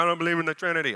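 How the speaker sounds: mock objector, lightly voiced; imitating a sceptical churchgoer; imagined doubter. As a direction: scoff as a doubter, put on. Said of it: "why you say it like that in my mind".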